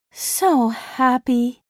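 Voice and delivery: put-on slow, slurred drowsy drunk voice. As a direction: slur it sleepily like tipsy. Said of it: "She sounded drunk".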